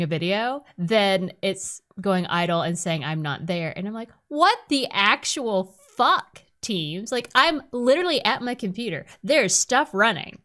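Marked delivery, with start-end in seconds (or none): 4.3-10.4 exasperated rant. Retold or imitated. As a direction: vent at the app like it can hear you. Ranting at Teams going idle.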